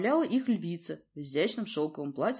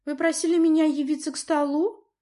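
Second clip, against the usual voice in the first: put-on higher young voice, careful question; cautious girl; 10 semitones higher, 7 dB louder than usual. A narrator's reading. Princess timidly asks her father why she was summoned. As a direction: ask carefully, not knowing why she was called. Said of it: "осторожно обратилась она".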